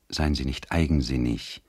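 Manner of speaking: leiser, gedämpfter Zuspruch; halbleise. A narrator's reading. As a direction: sanft und halblaut ermahnen. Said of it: "sagte Ottilie halbleise". (halblaut und bittend)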